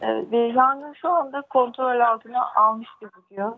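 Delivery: echoing phone line. Real, not acted. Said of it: "sesim yankılanıyor".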